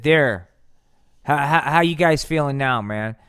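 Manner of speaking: loud gloating taunt. Acted. Aliens mocking a singer and Nixon, loud gloating. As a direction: rub it in, loudly.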